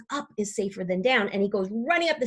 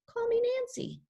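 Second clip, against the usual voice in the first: turtle voice; 14 semitones higher, 5 dB quieter than usual. Acted. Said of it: "the art room turtle".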